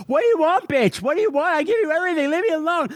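imitating an angry yell; hammed-up shouty rant; mock yelling. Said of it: "Smooch has been yelling at me".

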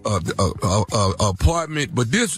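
lightly voiced country smooth talker, laid-back; a hint of a boastful country guy at home; country boyfriend. Phony man voice continues.

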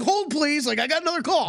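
put-on high, old-timey phone operator voice; an old newsreel announcer answering calls. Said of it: "With the old-timey voice".

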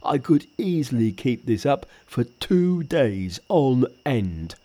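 lightly voiced Pigsy; a hint of a sulky pig spirit.

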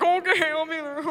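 eager employee. Retold or imitated. Mock eager reply to boss.

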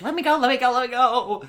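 put-on high, loud squeal of a frightened old man; panicked old man. Old man held up in the air, high frantic squeal.

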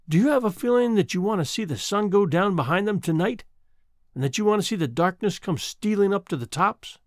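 lightly voiced old woman, timid and eager; a frail country woman reaching out, hopeful; a hint of a wistful old woman.

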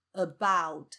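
"about" opening on a short neutral uh; weak "a", strong "bout" in "about"; schwa first syllable. Shown as a demonstration. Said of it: "你就把它念成呃".

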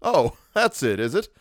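humouring, flattering lilt. A narrator's reading. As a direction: humour them with mild flattery. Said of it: "in that flattering voice".

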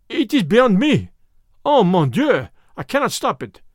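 high, loud wail of despair; French medium crying out that he's lost control; helpless panic. Acted. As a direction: throw it out in alarm. Frenchman helpless before the rampaging creature.

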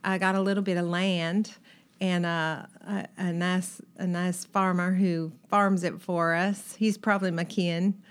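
homey Arkansas accent, lightly put on; Southern accent demo. Shown as a demonstration. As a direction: chat about the farm in your folks' Arkansas accent. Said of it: "Say a couple more things".

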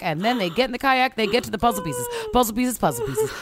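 fast, excited auctioneer patter. Pretend. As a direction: rattle it off like an auctioneer. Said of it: "try to do it in your best auctioneer voice".

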